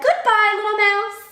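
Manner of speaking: high, loud storybook fright; acted alarm. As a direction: exclaim it as a startled animal. Fox flees from the Gruffalo.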